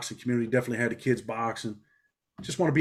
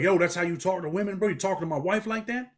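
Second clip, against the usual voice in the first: aggressive confrontation; 6 semitones higher than usual. Retold or imitated. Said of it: "I got aggressive immediately".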